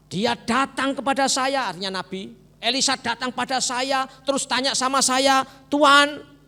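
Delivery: high, slow mocking of his own expectations; offended Naaman. Naaman complaining the prophet should have healed him. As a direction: mimic the proud general's fantasy.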